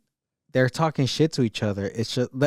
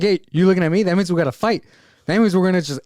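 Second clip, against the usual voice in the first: loud, raised-pitch imitation of someone starting trouble; mock challenge; 6 semitones higher, 6 dB louder, faster than usual. Guy announcing a fight to a stranger, mock challenge.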